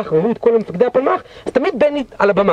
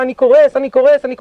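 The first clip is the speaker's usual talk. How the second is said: higher, louder panicked call; mock yell; 5 semitones higher, 4 dB louder than usual. Battalion commander yells to brigade commander he is collapsing, loud and high. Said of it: "הוא צועק למח"ט".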